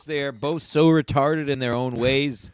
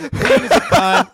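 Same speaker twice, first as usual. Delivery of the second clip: laughing mock yell; 7 semitones higher, 5 dB louder than usual. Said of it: "I was yelling".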